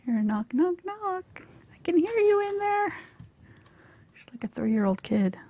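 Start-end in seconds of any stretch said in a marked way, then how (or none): 0.5-2.9 high sing-song voice for the cat; talking to a pet. Real, not acted. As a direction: coo at the cat behind the door. Talking to her cat at door.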